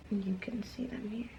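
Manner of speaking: soft unvoiced aside; whisper. Real, not acted. A vlogger whispering past names she can't pronounce. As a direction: drop to a whisper.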